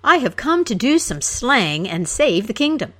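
loud, puffed-up declaration; swaggering loud boast; hero's roar. Acted. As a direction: proclaim your quest to the king. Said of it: "the hero roared".

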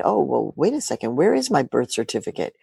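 soft, worried muttering; imitating a citizen's sudden worry; quietly alarmed inner voice; mock panic. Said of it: "now you're thinking".

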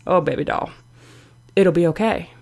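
gently soothing inner cheerleader; calm reassurance. Acted. Biggest fan comforts her upset owner, calm and reassuring. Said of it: "She always just calmly says".

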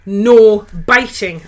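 slow, firm telling-off; a mild stern "No biting" to a puppy; stern command. Retold or imitated. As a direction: scold the puppy firmly. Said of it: "in a stern voice".

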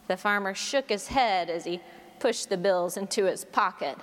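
lightly voiced joke telling; storytelling. Pastor telling congregation a joke, playful storytelling. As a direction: spin the farmer yarn with relish.

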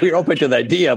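high, amused voice with laughter running through; laughing while quoting. Retold or imitated. Son retelling his parents' reply, laughing. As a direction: chuckle through the parents' words.

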